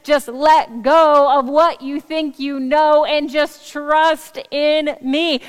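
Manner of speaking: slow, emphatic divine plea, lightly voiced; God urging firmly, with deliberate weight. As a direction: stretch the key words as if God is pressing the point. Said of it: "have God intervene and say".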